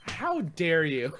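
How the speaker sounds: slow, drawn-out how dare you; mock outrage. Cohost fooled by the prank, slow mock outrage. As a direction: play wounded indignation, slowly.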